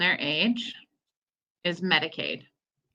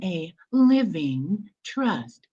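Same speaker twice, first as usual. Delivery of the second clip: slow; much slower than usual. Shown as a demonstration. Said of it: "say all of that again slowly".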